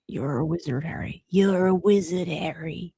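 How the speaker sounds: put-on wizard's giant friend in a medium's accent; lightly voiced Caribbean-accented crossover impression; Hagrid. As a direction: try the line in the psychic's voice. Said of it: "think of Hagrid in that voice".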